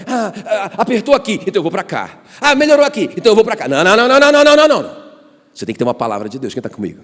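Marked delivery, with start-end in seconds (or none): 0.1-3.7 high, flighty mock voice; mock fickle believer. Pastor mocking a believer who drifts with every pressure, high and flighty. 3.7-5.1 loud, rising chain of no's; emphatic no. Real, not acted. Pastor forcefully rejecting an aimless life, loud emphatic no.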